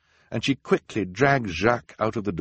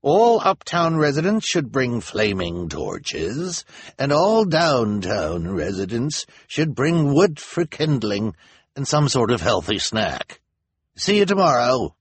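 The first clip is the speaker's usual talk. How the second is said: slow, loud, higher public orders; elder's instructions; 6 semitones higher, 5 dB louder than usual. A narrator's reading. Elder instructing uptown and downtown residents, slow and loud. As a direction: spell out the orders slowly to the crowd. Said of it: "he continued".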